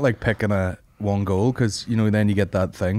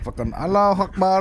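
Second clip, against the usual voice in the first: mock militant shout; 8 semitones higher than usual. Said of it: "he's like".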